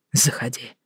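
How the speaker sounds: hushed, annoyed; soft irritated man's whisper. Acted. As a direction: let him in with a low irritated hiss. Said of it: "раздражённо шепнул Роман".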